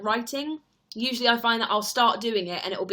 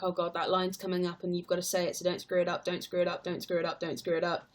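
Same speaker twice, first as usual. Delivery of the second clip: repeated under the breath, sinking quieter; mildly dreading inner chant; mock nervous self-talk; 2 semitones lower, 4 dB quieter than usual. Actor coaching themselves before a tricky line, mock nervous. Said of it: "in the run up to it, you're like".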